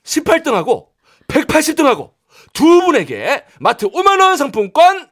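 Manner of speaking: ordinary talk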